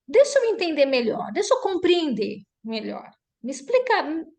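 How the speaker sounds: lifted pitch, asking to understand; open, conciliatory request. Shown as a demonstration. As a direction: gently appeal to her to explain. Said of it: "eu posso falar assim".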